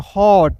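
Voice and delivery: हॉट with a drawn-out aw vowel; open O. Shown as a demonstration. Teacher models the middle O rule, open aw in हॉट. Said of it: "इसका उच्चारण औ के रूप में".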